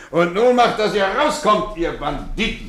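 teacher shooing the boys out, playful loud mock-stern; mock-stern shout. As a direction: bark them out with a grin in the voice.

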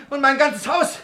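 very high, loud hysterical ranting; raging shout. Acted. Miser screaming threats at his whole household. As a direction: call down vengeance on everyone.

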